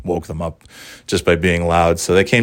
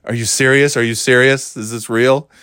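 excited disbelief; 3 semitones higher, 3 dB louder than usual. Retold or imitated. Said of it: "I was like".

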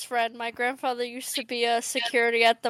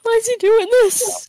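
high mock voice; 10 semitones higher, 6 dB louder than usual. Voicing a character.

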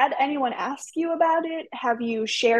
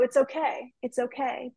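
self-soothing; 6 dB quieter than usual. Retold or imitated. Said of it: "let's look in the mirror and say".

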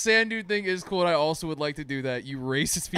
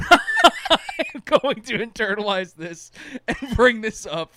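mock solemn vow; 4 semitones higher, much slower than usual. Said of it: "and I was like".

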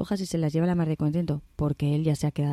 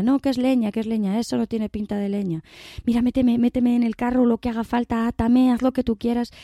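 desperate pleading; 5 semitones higher than usual. Acted. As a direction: plead to be tied up and hidden. Bear begs farmer to hide him.

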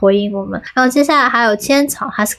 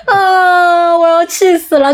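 mock exasperation; 7 semitones higher, slower than usual. Exasperated rant about fireworks scene.

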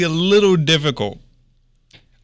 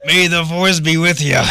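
a bit more pirate growl on the line; slightly more piratey; 2 semitones higher, 3 dB louder than usual. Acted. Second take, a little more pirate. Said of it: "I need a little more piratey".

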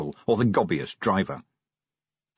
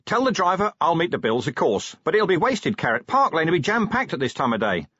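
high, raised protest; carrying voice pitched up; shouting; 6 semitones higher than usual. A narrator's reading. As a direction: shout instructions over the racket. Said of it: "he shouted".

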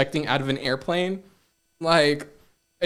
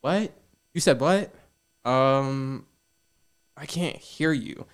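pretending not to hear; 4 dB quieter, slower than usual. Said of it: "You gonna be talking about me like".

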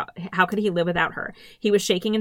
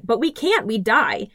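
high, urgent pleading; frightened girl pleading; desperate plea; 5 semitones higher than usual. Acted. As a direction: beg him, voice up high.

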